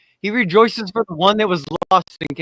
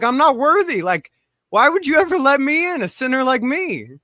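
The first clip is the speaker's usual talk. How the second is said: higher-pitched, acted self-doubting plea; humbled disbelief; 6 semitones higher than usual. Imagined plea at heaven's gates.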